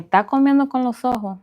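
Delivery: a hint of a scolding mother in Spanish; quoting mother. Mother scolding her eating child, lightly voiced. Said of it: "my mother used to say".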